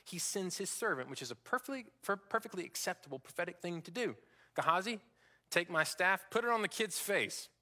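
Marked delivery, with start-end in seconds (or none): 4.5-7.5 urgent command. Acted. Elisha orders servant urgently.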